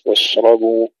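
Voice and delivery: واشربوا with a light b; light ب after the heavy ر in واشربوا; thin ba. Shown as a demonstration. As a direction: recite واشربوا keeping the ب thin. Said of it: "برقق الباء".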